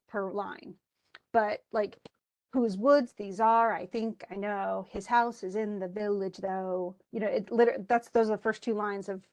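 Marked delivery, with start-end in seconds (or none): 2.5-7.0 "Whose woods these are" recited in a measured weak-strong beat; regular iambic rhythm. Shown as a demonstration. Teacher quoting Frost to show an easy-to-hear meter, measured rhythmic recitation. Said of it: "super easy to hear".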